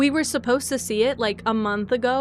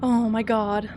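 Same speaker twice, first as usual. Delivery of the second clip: whisper; slower than usual. Real, not acted. Whispered awe.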